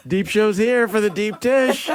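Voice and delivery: giggling through a pretend request; laughing mock line. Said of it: "I'm like".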